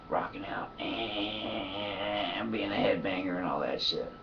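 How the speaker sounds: slow, soft whisper; hushed aside. Real, not acted. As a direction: breathe it out slowly.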